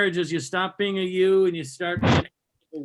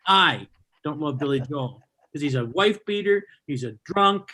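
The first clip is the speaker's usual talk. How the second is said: snapping rant; 3 semitones higher than usual. Retold or imitated. Husband snapping at wife in the restaurant, mock angry rant. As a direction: snap back at her, hammed-up. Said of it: "I snapped".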